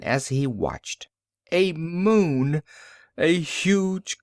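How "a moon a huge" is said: higher, sudden cry of discovery; startled narrator exclaiming at the moon; startled exclamation. A narrator's reading. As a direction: gasp it out in alarm.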